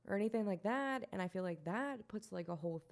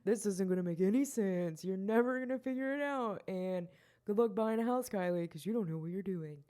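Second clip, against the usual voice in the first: mocking credit man; 4 dB louder than usual. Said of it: "the man behind the curtain of my credit score saying".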